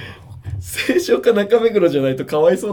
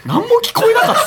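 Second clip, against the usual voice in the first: laughing disbelief; 5 dB louder than usual. Real, not acted. Amazed that a friend heard nothing.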